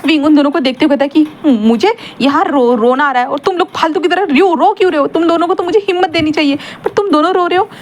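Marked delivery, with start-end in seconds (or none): 1.7-7.7 tearful complaint. Retold or imitated. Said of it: "विंग तो यहाँ पे रो ही रहा था".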